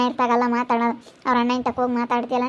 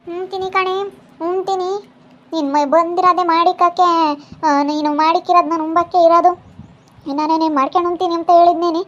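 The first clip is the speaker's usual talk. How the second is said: higher-pitched indignant comeback; defiant retort; 4 semitones higher than usual. Acted. Daughter-in-law defies mother-in-law, higher, defiant retort. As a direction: fire back, affronted and shrill-edged.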